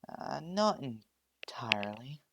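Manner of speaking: whispered, slow and embarrassed; sheepish whisper. Acted. Daughter sheepishly admitting she never told her parents, in a whisper. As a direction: confess it under your breath.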